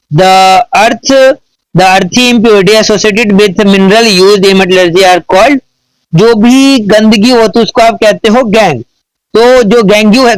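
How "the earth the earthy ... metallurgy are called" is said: slow, deliberate dictation of an English question; slow question read. Acted. Teacher dictating to students, slow careful reading. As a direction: read each word out slowly for students to copy.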